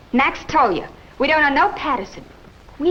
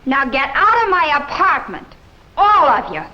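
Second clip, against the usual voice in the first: angry. Acted. Woman orders everyone out.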